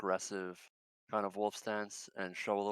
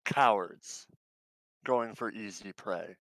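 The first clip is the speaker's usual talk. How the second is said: bared-teeth wolf; 4 dB louder than usual. Acted. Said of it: "fully bare his teeth and go".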